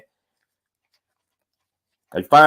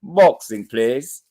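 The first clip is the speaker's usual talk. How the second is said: mock-English voice, first word pitched up; English accent; much slower than usual. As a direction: put on a playful English accent. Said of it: "In my English voice".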